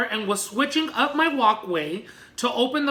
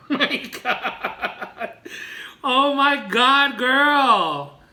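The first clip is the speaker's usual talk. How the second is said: amazed; much slower than usual. Real, not acted. Cracking up at embarrassing email.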